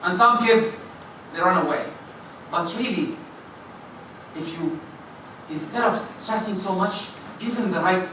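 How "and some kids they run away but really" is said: ordinary talk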